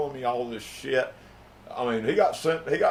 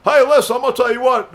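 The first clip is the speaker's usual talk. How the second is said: loud, raised-pitch interjection; heated argument; 8 semitones higher, 8 dB louder than usual. Acted. Bounty hunter confronting Dan, heated and loud. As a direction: cut in loudly to take over.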